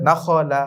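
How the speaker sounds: "নাখলা" with a thick, full middle খ; thick Arabic letter. Shown as a demonstration. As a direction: say "নাখলা" with a heavy খ. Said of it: "মোটা করে পড়তে হবে". ("নাখলা"-র খ মোটা করে উচ্চারণ)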